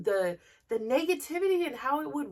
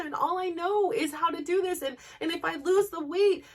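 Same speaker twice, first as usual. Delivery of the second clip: inner survival voice; 4 semitones higher than usual. Retold or imitated. Her inner survival voice pleading to keep the weight as armor. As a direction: voice the scared part of you that grips on to the weight.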